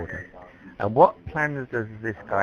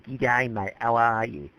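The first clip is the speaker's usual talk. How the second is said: put-on Australian accent; slower than usual. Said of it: "that's the traditional Australian accent".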